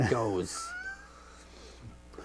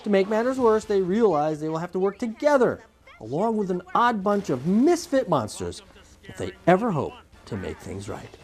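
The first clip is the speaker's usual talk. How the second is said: measured presenter's read with punched key words; film synopsis read; 3 semitones higher than usual. Acted. Host summing up Monsters University for viewers, presenter read. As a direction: read it out like a movie preview, pausing between phrases.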